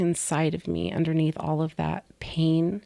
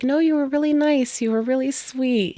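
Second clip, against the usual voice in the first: higher, lightly voiced nurse, reassuring; kind nurse; 8 semitones higher, 4 dB louder than usual. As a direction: quote the nurse sweetly. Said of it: "She was like".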